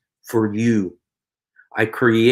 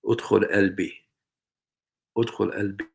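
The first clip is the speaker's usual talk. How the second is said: prayer words; 5 dB quieter, much faster than usual. Shown as a demonstration.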